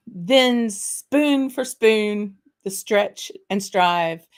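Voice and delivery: slow, grand reading of the Burns address; theatrical poem recital. Acted. Host reciting the haggis address to viewers, slow theatrical declaiming. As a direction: declaim it slowly with mock gravity.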